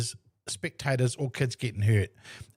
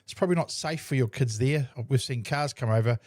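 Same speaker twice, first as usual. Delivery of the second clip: nice and calm. Retold or imitated. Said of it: "And I said it nicely and calmly".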